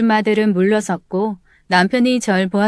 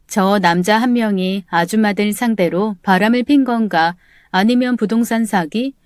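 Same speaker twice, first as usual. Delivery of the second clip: ordinary delivery, nothing marked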